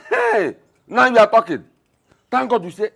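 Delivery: a sharp, very high "Hey!", then pressing the point; triumphant exclamation. Acted. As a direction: pounce on her slip of the tongue. Father seizes on wife's words.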